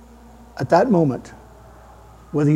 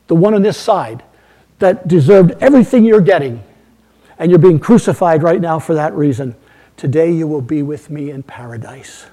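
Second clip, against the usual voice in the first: Jesus's promise; 6 dB louder than usual. Acted. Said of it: "he looked at him and said this".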